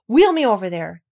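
put-on curt order from a spoilt boy; commanding. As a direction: give the order like a young lord. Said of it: "he commanded".

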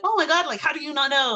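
high-pitched, exasperated disbelief; incredulous exclamation. Retold or imitated. Wife to husband who has never heard of her idol, incredulous. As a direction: react as if they surely should know.

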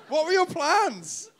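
slow question through laughter; laughing. Real, not acted. Friend mocking the comedian's story, laughing. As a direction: tease him while laughing. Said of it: "mocking the storyteller, laughing".

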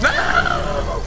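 high shouted no; panicked scream. Real, not acted. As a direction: scream as the gator strikes. Attacked by alligator.

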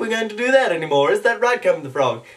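cartoon character in conversation; lightly affected cartoon impression; Stewie Griffin. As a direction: put on a chatty cartoon voice. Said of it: "that's right, um, Stewie Griffin".

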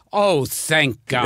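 slow, deadpan relief; dry relief. Retold or imitated. The director answering the actor, slow and deadpan. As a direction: let the thanks come out dry and unhurried. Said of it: "And Billy Wilder goes".

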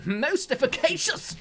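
high, slow hammy catchphrase; character catchphrase voice. Retold or imitated. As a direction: stretch it out high and grand. Quoting game character catchphrase.

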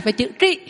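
trị said with curled tongue; contrast tị and trị. Shown as a demonstration. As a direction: mark trị against tị. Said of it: "Giống như chữ tị ha".

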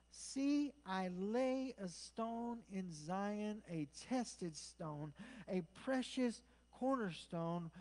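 slow, deliberate declamation; scripture reading. Real, not acted. Preacher reading Isaiah's prophecy to church, slow and deliberate. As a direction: weigh out each phrase, pausing between them.

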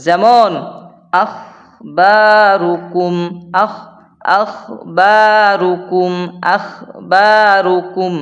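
আখবারুকুম with a throaty gh, drawn out slowly; Arabic ghain demo. Shown as a demonstration. Quran teacher showing students the throat letter, slow. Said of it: "এবার গইন দিয়ে উচ্চারণ করতে হবে".

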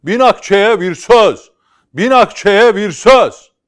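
long, high market cry; shouting. Acted. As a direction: bellow it across the market. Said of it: "bir köşede bir adam bağırıyor".

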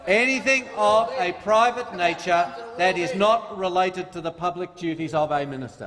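deliberately slow, spelling each word out; slow and clear reading. Shown as a demonstration. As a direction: read it slowly, like to someone who won't listen. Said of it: "I'll read it slowly for you, Simon".

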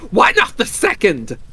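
high, loud, fevered challenge; feverish. A narrator's reading. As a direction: push the mad idea feverishly. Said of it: "said the old woman feverishly".

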